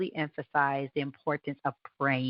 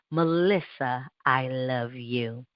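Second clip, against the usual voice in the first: slow tender affirmation; 3 semitones lower, slower than usual. Shown as a demonstration. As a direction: say it gently to yourself, taking your time. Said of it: "I'm gonna say it three times".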